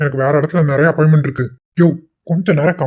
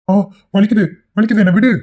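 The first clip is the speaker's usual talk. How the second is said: cries of pain; 5 semitones higher than usual. Acted. Henchman beaten, crying out in pain.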